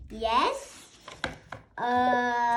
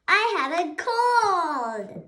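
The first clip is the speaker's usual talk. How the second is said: happy news; 4 semitones higher, 4 dB louder than usual. Acted. Gerald joyfully shares news.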